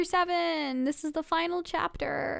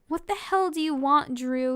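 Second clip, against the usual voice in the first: growled; 3 dB louder than usual. Acted. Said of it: "Haley growled".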